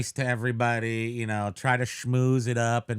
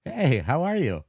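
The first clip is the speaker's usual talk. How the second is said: creepy greeting; 3 semitones higher than usual. Shown as a demonstration. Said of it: "threatening a little bit".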